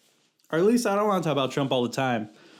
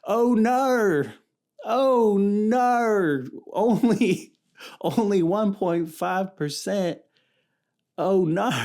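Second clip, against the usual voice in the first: high, loud mock Australian whine; hammed-up Australian accent, pitched way up; 8 semitones higher, 4 dB louder, much slower than usual. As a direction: lament the tiny share in a jokey Australian accent. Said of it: "I was about to attempt an Australian accent".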